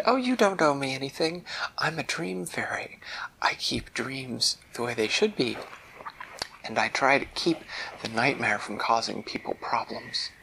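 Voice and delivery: modest and kind; dream fairy. Acted. Fairy waving off thanks, lightly voiced. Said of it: "And Isabel said".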